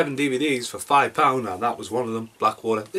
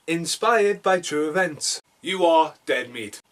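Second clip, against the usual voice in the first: slow, raised-pitch tagline reading; trailer tagline; 4 semitones higher, slower than usual. Acted. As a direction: announce each tagline deliberately. Reads taglines in trailer delivery.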